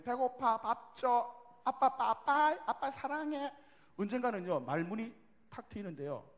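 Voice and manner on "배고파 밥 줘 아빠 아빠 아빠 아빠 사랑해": put-on higher, insistent little-kid voice; childlike calling; small child. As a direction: imitate a toddler newly chattering to daddy. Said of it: "어느 순간 되면".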